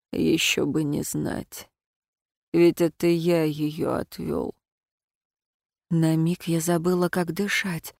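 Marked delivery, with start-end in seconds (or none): 0.1-4.5 slow, softer bitter confession; low and slow, as if it costs him; bitter smirk. Acted. Dragon friend confessing guilt to the heroine, slow and bitter. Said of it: "Он горько усмехнулся".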